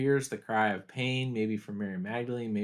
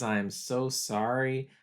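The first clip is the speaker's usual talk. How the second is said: slow, gentle, sorrowful; tender apology; slower than usual. Retold or imitated. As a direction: say it slowly like comforting someone dying. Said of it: "He says".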